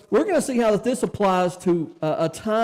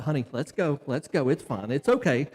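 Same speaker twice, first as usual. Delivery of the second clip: soothing wife; 5 semitones lower, 3 dB quieter than usual. Retold or imitated. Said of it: "Amanda's like".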